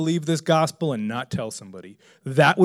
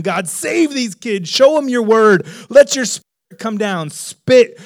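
retold fervent prayer, raised and drawn out; crying out to God; 4 semitones higher, 4 dB louder, slower than usual. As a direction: imitate praying at the top of your lungs, partly held back. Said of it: "top of my lungs, like, crying out to God".

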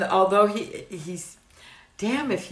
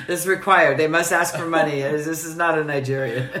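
mock Usman voice; 2 semitones lower than usual. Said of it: "Usman was giving his take".

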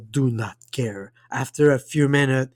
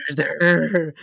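squealed; 3 semitones higher than usual. Acted. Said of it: "squealed Dobby".

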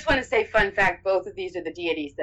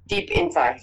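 much higher, mock dramatic; 13 semitones higher than usual. Real, not acted. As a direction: squeak it out for comedy. Joking dramatic follow-up.

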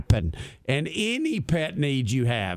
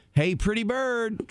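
higher, quick bird imitation; quick parrot voice; 6 semitones higher than usual. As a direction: chirp it out quickly like the cockatiel. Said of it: "She says it fast".

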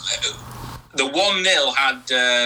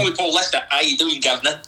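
a bad, lightly done Cockney accent; mock Cockney accent; 3 semitones higher, faster than usual. Cockney accent, mocking a mate on a podcast. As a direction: greet him like a cheeky Cockney, half-hearted. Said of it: "Australian Cockney".

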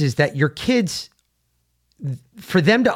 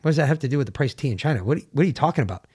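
put-on confused fast kid; 3 dB quieter, much faster than usual. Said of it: "looking at him like".

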